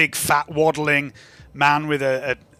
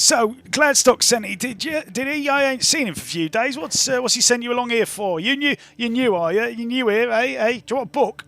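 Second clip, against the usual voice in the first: big rough man; 9 semitones higher than usual. Acted. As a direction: boom it out like a big coarse brute. GM continues voicing Les.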